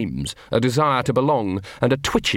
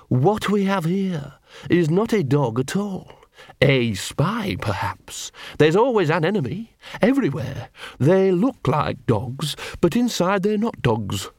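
high, slow, deliberate villain dog; menacing poodle leader, suspicious; 5 semitones higher than usual. A narrator's reading. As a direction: sneer out the accusation in a high poodle voice.

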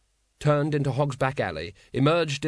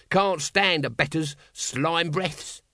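sneering Nobby; 4 semitones higher, much slower than usual. Acted. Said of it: "Nobby's taunting voice".

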